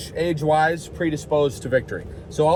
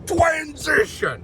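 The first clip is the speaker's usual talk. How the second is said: high, very slow drawn-out shout; mock transition call; 12 semitones higher, much slower than usual. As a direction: announce the transition like a jingle. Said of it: "Oh, sorry, sorry".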